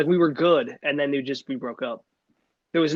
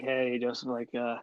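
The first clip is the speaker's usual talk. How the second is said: dead serious dad; 5 semitones lower, 9 dB quieter, slower than usual. Retold or imitated. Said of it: "he said it as dead serious as someone could say".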